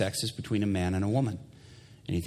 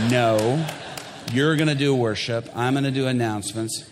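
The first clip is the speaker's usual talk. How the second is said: loud, firm comic put-down; emphatic refusal; 3 semitones higher, 5 dB louder than usual. Retold or imitated. Pastor overruling his worship leader, emphatic refusal. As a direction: shut the idea down loudly.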